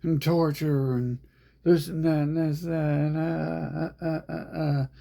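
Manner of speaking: high, loud mock wail; whiny parody of people crying about the world; mock complaining whine; mocking crybaby voice. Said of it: "They're like".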